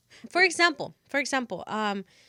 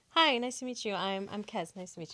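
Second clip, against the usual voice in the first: soft, easygoing polite hello; nice greeting; 2 semitones lower, 5 dB quieter than usual. Shown as a demonstration. Demonstrating being nice for a co-host, understated nice greeting. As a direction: greet them nicely, trailing off softer. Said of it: "what's the nicest you can be".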